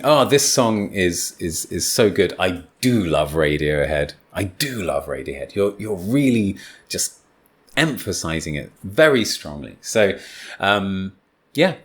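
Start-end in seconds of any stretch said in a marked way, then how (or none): 0.0-5.5 "I do love Radiohead" with the weight on "do"; stress on do. Shown as a demonstration. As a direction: savour the emphatic "do". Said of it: "when you're stressing".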